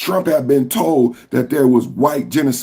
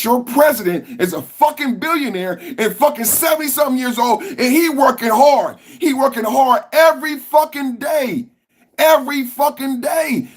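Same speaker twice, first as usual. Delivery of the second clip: much higher, yelling every fucking day; heated rant; 7 semitones higher than usual. Real, not acted. To his viewers, demanding why they can't work, shouting. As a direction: scold them at full volume. Ranting about Trump working hard.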